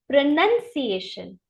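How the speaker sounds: प्रोनंसिएशन with no O sound, pro-NUN-see-AY-shun; correct pronunciation. Shown as a demonstration. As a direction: say प्रोनंसिएशन with the O silent. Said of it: "ये प्रोनाउंसिएशन नहीं होता".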